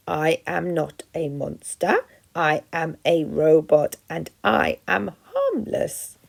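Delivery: slow, steady robot denial; calmly insisting it is harmless; lightly voiced robot, even and slow. Robot reassures frightened opossum.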